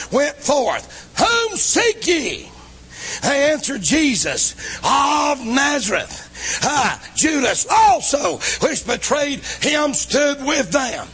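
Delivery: full-force preaching. Acted. Preacher thundering to the congregation, full force. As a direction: preach it out to the whole church.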